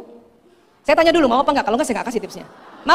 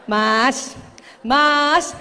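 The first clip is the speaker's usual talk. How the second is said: drawn-out, sweet call to husband; smiling call. Shown as a demonstration. Wife calls unresponsive husband, keeping a patient smile. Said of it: "pertahankan senyum sampai panggilan kelima".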